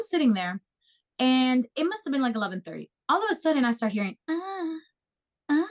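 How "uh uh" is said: a light, half-hearted imitation of a woman moaning; imitated moaning. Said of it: "some bitch moaning".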